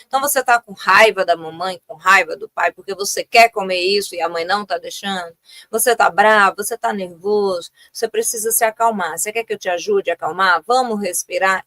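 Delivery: gentle, reassuring naming of the feeling; calm parent. Shown as a demonstration. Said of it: "aqui é só uma sugestão e um exemplo". (mãe conversando com o filho bravo, com calma)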